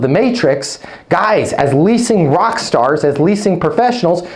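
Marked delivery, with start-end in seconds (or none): none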